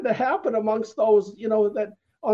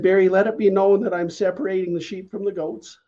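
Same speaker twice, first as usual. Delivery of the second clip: prophetic word. Retold or imitated. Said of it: "he came and he said".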